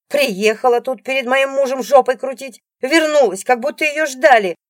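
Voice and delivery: high, loud jealous tirade; furious yelling. A narrator's reading. Jealous wife yelling at her husband's ex. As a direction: scream the insult. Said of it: "орёт Алиса".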